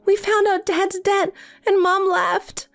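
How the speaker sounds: high, pleading plea for help; desperate pleading. Acted. Sister desperately begging Janet for help, high and pleading. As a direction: beg your estranged sister to rescue you.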